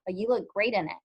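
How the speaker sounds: sincere, admiring compliment. Shown as a demonstration. Teacher modelling a compliment on a shirt, sincere. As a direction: pay the compliment as if you mean it. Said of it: "say it in a sincere voice".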